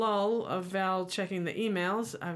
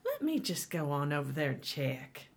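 imitated Southern waitress; Southern accent. Waitress offering to check on an outfit, Southern accent. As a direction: say it with a Southern lilt. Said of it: "they've got that southern accent".

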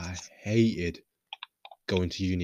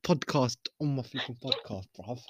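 high-pitched, playful telling-off; mock indignation; 6 semitones higher, 5 dB louder, slower than usual. Real, not acted. Host defending the podcast from the guest, mock indignant. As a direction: scold in a raised, mock-offended voice.

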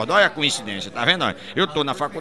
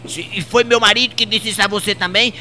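high, louder indignant question; outraged madam; 6 semitones higher, 5 dB louder than usual. Acted. Madam confronting the maid, high and outraged. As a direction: demand it in shock.

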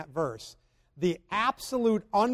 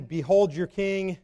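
sarcastic. Pretend.

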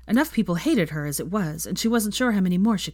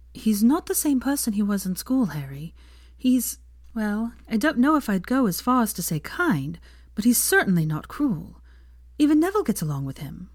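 put-on lightly higher, earnest young woman; 5 semitones higher than usual. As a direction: play Hermione, huffing a little. Hermione voiced in story.

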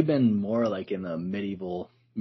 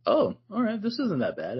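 surprised and moved; 13 semitones higher than usual. Retold or imitated. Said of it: "and I was like".

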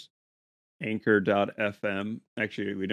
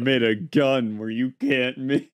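hyped YouTuber voice; 4 semitones higher, 9 dB louder than usual. Retold or imitated. Mocking YouTuber title.

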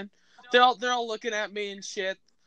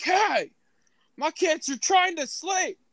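much higher, mocking falsetto complaint; mock big neighbor; 12 semitones higher, 4 dB louder than usual. Teller mimics angry neighbor, high mocking falsetto. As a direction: squeak it like a put-upon neighbor. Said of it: "And she's all like".

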